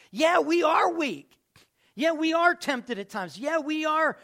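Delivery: loud, high, slow emphatic declaration; preaching hard. Real, not acted. Pastor confessing our weakness to the church, loud and slow. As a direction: hammer each word home to the congregation. Preacher driving the point home.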